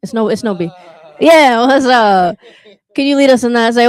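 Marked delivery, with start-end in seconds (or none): 1.2-2.4 loving what's up. Shown as a demonstration. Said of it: "in, like, a loving way".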